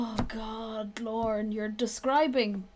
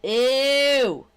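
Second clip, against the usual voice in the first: disgusted; 6 semitones higher, 9 dB louder than usual. Real, not acted. Disgusted reaction to loyalist.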